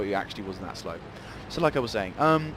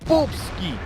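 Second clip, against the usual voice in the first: gleeful call; 8 semitones higher, 5 dB louder than usual. Real, not acted. Shooting an enemy tank.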